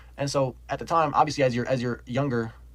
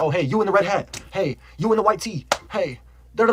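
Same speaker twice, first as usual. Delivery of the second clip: higher, louder, calling out to strangers below; hollering from a treetop to tease people; mock yelling; 6 semitones higher, 4 dB louder than usual. Two kids trolling passersby from a tree, calling out loud.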